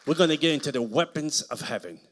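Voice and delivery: rising into full-volume preaching; booming pulpit preaching; preaching loud. Real, not acted. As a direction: lift it and preach it out.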